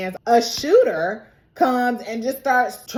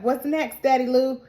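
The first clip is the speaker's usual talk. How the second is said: put-on a lightly higher, childlike daughter voice; Claudia's voice; 5 semitones higher than usual. Regina pretending to be Claudia for Louis, a hint of a childlike voice. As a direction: play the little girl, only slightly lifted. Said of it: "she did Claudia's voice".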